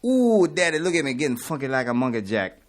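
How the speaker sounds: showy TV wrestler persona, ham it up; imitating the American Dream's TV voice; Dusty Rhodes impression. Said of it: "He would have said it something like this".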